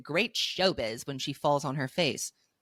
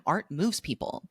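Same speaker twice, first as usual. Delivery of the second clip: disdainful. Real, not acted. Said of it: "The way that you said that with such disdain".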